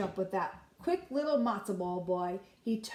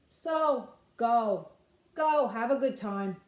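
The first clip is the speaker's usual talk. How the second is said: put-on old grandma calling; 4 dB louder than usual. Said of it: "she called".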